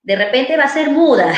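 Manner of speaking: a touch of a worried mother. Retold or imitated. Therapist retelling the worried mother's question, mild worry. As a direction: lightly play the anxious mum. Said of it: "la mamá preocupada".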